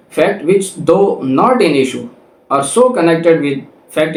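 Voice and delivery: reading the law out slowly, word by word; slow, deliberate legal reading; slow statute reading. Shown as a demonstration. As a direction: dictate the section clearly to students. Reads section nineteen text.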